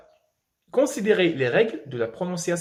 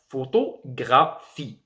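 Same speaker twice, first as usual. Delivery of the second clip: "Photographie" slowed, final "phie" set apart; last-syllable stress; slower than usual. Shown as a demonstration. Teacher illustrating tonic accent to learners, "Photographie" slowly with "phie" separate. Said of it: "la dernière syllabe prononcée".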